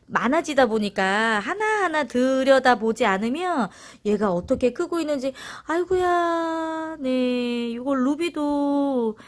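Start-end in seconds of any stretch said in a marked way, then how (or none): 5.7-9.2 high, slowed doting coo; cooing to plants. Real, not acted. (아기 어르듯 높게 늘이는 감탄)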